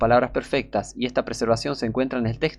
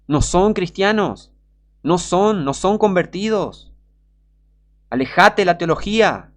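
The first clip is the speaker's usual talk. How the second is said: fervent preaching; 6 semitones higher than usual. Real, not acted. Preacher denouncing theologians.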